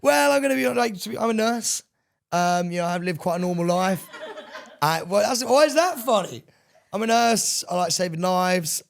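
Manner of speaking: put-on high, loud girly character; playing a bubbly nurse. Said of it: "playing Danielle the nurse".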